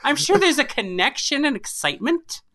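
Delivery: passionate. Real, not acted. Storyteller to friend about imagined game characters, passionate. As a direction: get carried away imagining her backstory. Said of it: "the passion in your voice".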